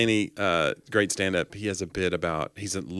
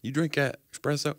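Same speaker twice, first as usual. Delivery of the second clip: slow, higher southern drawl; southern accent; 6 semitones higher, 4 dB quieter, slower than usual. Acted. Teasing coffee drinkers about espresso, southern accent. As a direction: put on a drawn-out southern accent. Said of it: "go into that southern accent".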